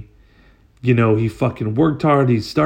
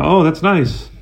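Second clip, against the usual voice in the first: flat polite; 5 semitones higher, 3 dB louder than usual. Retold or imitated. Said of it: "Just like that".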